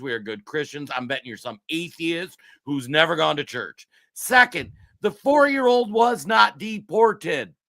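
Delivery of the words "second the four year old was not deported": loud and heated, hammering each word; really worked up, nearly yelling; a real angry rant voice; fired-up shout. Real, not acted. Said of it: "I'm a little fired up".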